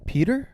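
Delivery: high rising question after a beat; acted dawning recognition, voice lifting; hesitant question. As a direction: ask it tentatively, pitched right up. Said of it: "There should have been a long beat".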